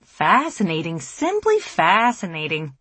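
a hint of a nerdy professor. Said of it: "in the nerdiest voice they can muster".

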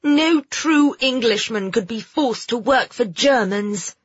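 put-on high, indignant girl's protest; heated retort. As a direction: insist hotly on honour. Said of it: "Phoebe said hotly".

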